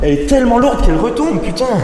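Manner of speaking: strained, high and loud with effort; straining. Real, not acted. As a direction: push through the effort of lifting. Straining to lift heavy door.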